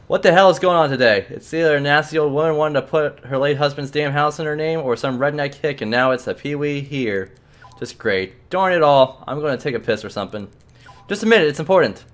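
a hint of a grumbling old clerk; grumpy clerk. Clerk grumbling at the boy, lightly voiced irritation. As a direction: mutter the complaints like a fed-up official.

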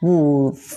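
"wolf" drawn out with a long hissed F at the end; stressed final F. Shown as a demonstration. Teacher points out the last sound to learners, exaggerated F. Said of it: "มีเสียง F ท้ายเสียงครับ".

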